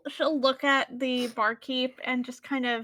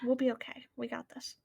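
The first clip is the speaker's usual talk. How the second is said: hushed aside, dropping much softer at the end; whispered reassurance; 6 dB quieter, faster than usual. Acted. Naya to Urzahan before they depart, softly whispered reassurance. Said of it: "whisper in its ear".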